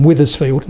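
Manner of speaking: "Withersfield" with a short I first; Withers, not Wethers. Shown as a demonstration. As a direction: say "Withersfield" with "with" at the start. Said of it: "not Wethersfield".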